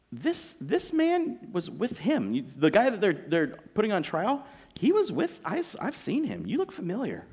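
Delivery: acted dawning suspicion; hesitant accuser. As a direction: stumble over the words as you place a face. Servant girl accuses Peter, acted.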